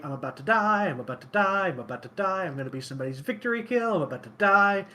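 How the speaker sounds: lightly panicked chant, rushed in the middle; mutter-free, repetitive mock panic; mock dread. Retells own dread in the game.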